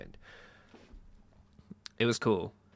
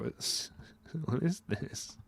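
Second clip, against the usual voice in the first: laughing disbelief; 7 semitones higher, 6 dB quieter, much slower than usual. Real, not acted. Laughing at Twitter drama.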